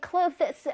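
"clothes" said like "close", no th; simplified pronunciation without th. Shown as a demonstration. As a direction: drop the th from "clothes". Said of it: "clothes라고 발음해도 돼요".

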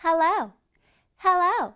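"hello" with the O like blowing a bubble; rounded O. Shown as a demonstration. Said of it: "비눗방울이 나온다고 생각해 볼게요".

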